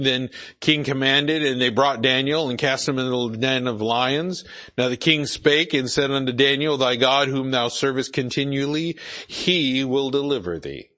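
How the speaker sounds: measured reading aloud from the Bible; scripture reading. Acted. Preacher reads the king's words to Daniel, scripture reading. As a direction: read the verse out clearly to listeners.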